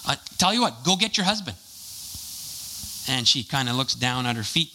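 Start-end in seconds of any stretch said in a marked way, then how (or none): 0.0-1.6 said nicely. Retold or imitated. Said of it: "just nicely".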